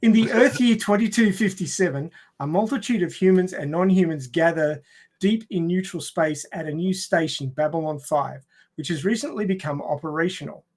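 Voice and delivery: formal read-aloud of a synopsis; proper plot read. Real, not acted. Host restarting the plot summary for the panel, proper read. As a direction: read it out properly, as a prepared introduction. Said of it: "I should really read this properly".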